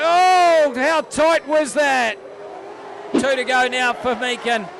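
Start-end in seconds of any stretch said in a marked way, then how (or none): 0.0-2.2 excited. Real, not acted. Close racing moment.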